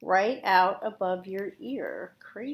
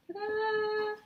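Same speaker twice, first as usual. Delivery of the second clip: ta-da reveal; 13 semitones higher, 6 dB quieter than usual. Real, not acted. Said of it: "reveals finished ponytail".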